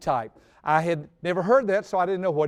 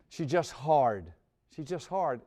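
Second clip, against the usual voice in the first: low, slow resigned sigh of a line; weary admission; 3 semitones lower, 4 dB quieter, slower than usual. Retold or imitated. Father confessing to friend, low resigned admission. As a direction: let it sink, defeated. Dropped head, admits struggle.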